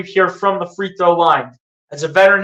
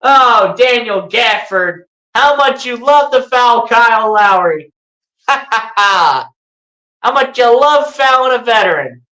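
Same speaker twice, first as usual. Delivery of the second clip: mocking taunt; 3 semitones higher than usual. Real, not acted. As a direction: rub the foul in his face, half laughing. Taunting the fouling player.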